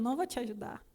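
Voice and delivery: the Spirit rebuking a workaholic, softly and firmly; quiet stern voice of God. Retold or imitated. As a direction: scold her gently but firmly, like a disappointed father. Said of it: "Ele falou".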